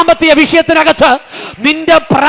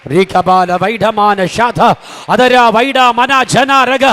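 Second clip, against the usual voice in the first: deep prayer in tongues; 3 semitones lower, much slower than usual. Real, not acted. Preacher sinking into prayer before the congregation, low slow tongues. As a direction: drop the voice low and let the syllables drift slowly.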